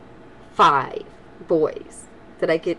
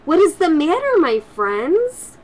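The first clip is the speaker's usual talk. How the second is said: kind; 9 semitones higher, 4 dB louder than usual. Acted. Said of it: "she asked kindly".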